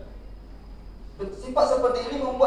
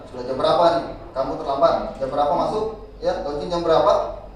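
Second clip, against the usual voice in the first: mild formal interrogation; 4 semitones lower, 4 dB louder than usual. Retold or imitated. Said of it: "dia pakai bahasa formal".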